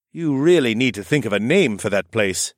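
lightly voiced kindly man; a gentle, joking uncle. Horace speaks.

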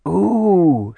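high, drawn-out delighted coo. A narrator's reading. Simi delighted by a store website, cooing high. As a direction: coo it like a thrilled girlish demon. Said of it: "Simi cooed".

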